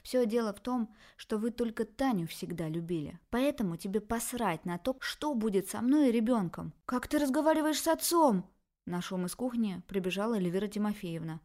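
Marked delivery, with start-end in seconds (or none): 0.0-6.7 resentful daughter. Acted. Daughter accuses her parents of favouring Tanya, bitter. 6.9-8.5 higher, louder rebuke; scolding father. Acted. Father scolds his daughter, raised and angry.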